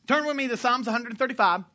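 ordinary talk, nothing marked

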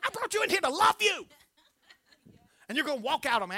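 laughing mock indignation at the pet; mock hurt pet owner. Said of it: "I'm like".

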